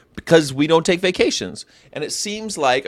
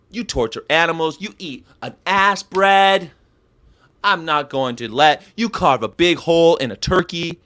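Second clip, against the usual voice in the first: Gary Yourofsky impression; 3 semitones higher than usual. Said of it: "that's my Gary Yourofsky impersonation".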